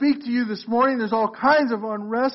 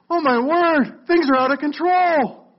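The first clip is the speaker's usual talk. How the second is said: higher-pitched, exaggerated cry of dismay; mock alarm; 5 semitones higher than usual. Preacher voicing people reacting to bad news, mock alarm. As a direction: act out a worried overreaction.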